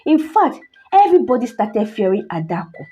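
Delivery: measured, dramatic storytelling; story narration. A narrator's reading. Narrator telling listeners of a cursed doll, story narration. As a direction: tell an eerie tale with careful pauses.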